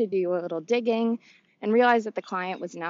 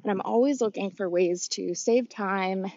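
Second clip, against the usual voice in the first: out of breath. Real, not acted. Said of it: "if I sound out of breath".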